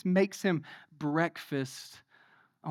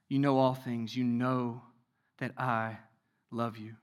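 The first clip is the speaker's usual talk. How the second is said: scripture reading; 4 semitones lower, 5 dB quieter than usual. A narrator's reading. Preacher reading Jesus questioning Peter, solemn scripture reading. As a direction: read it softly and deliberately, with pauses.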